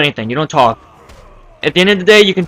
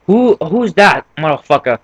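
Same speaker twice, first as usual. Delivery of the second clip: angry stranger. Retold or imitated. Voicing angry stranger on phone.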